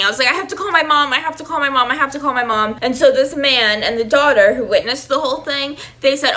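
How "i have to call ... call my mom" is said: higher, mock-frantic repeated plea; retold screaming. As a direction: imitate panicked pleading without full volume. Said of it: "So I was screaming".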